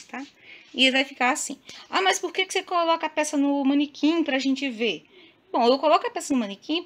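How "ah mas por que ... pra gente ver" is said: higher, louder voice of a questioning viewer; imagined viewer question. Acted. Viewer asking why she uses the mannequin, raised mock-questioning voice. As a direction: pipe up as a curious follower.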